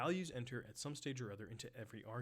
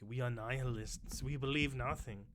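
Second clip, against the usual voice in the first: Big Lebowski nihilists; 3 dB louder than usual. Acted. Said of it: "in The Big Lebowski".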